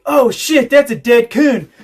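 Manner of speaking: high, loud imitated exclamation; mock excited discovery. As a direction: blurt it out like a thrilled neighbor. Acting neighbor spotting dead raccoon.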